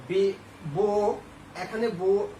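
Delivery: drawn-out বো, said slowly; slow teacher's demonstration of বো; sounding out বো. Shown as a demonstration. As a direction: stretch out বো so the vowel is heard. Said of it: "বুকের উচ্চারণ".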